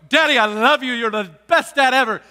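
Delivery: put-on loud, sugary child voice; mock adoring kid; sweet kid. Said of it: "the kids are gonna go".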